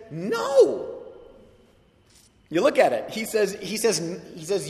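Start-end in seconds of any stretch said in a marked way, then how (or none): 0.1-0.9 high emphatic no; sharp no. Retold or imitated. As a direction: snap back a flat refusal. Paul's flat refusal voiced.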